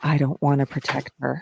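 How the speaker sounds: acted low muttering. Recounting a man's reaction to what a woman did: retelling muttering under his breath. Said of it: "says really under his breath kind of".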